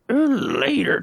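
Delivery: playful sign-off. Pretend. Playful sign-off sing-song.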